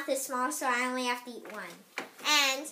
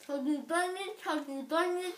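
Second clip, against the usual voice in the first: cheeks stuffed full; 2 semitones higher than usual. Real, not acted. Marshmallows stuffed in mouths.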